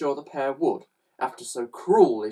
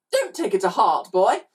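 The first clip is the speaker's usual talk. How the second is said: higher, chirping brush-off; chirpy; 7 semitones higher, 4 dB louder than usual. A narrator's reading. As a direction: chirp it lightly at the boy. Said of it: "chirped Missus G".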